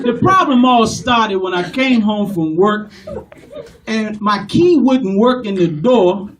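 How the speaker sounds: passionate Italian-American caller; Italian-American customer with a grievance; Italian-American accent. Acted. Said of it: "offer you a little story".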